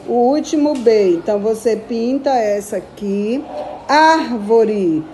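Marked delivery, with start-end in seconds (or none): 3.9-5.0 Árvore with the first syllable Ár pushed; stress on Ár. Shown as a demonstration. Teacher showing pupils the strong syllable of Árvore. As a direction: hit Ár in Árvore a bit harder. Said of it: "mais forte o A".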